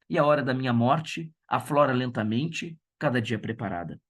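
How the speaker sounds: solemn verse recital fading into a hush at the end; a teacher reading the poem's closing lines to students. Acted. Teacher reads poem aloud.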